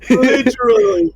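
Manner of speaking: exasperated whine. Real, not acted. Complaining about partner.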